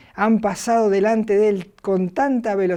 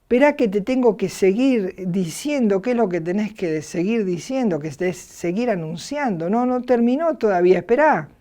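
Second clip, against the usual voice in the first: voice from heaven; 2 semitones higher than usual. Retold or imitated. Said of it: "la voz del cielo dice".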